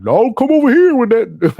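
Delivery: mock dismissal. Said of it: "we like".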